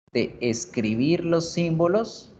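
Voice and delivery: slow and drawn out. Shown as a demonstration. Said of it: "teacher slows to show".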